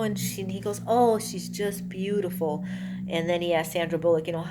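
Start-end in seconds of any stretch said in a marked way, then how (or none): 0.8-2.6 slow, lightly acted adoration; admiring. Gary admiring the girl's newborn, slow gushing imitation. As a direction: linger over it like a mock baby admirer.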